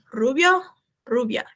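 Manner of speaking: "rubio, rubia" with a strong initial R; strong Spanish R. Shown as a demonstration. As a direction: open "rubio" on a firm Spanish r. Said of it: "ele é bem forte".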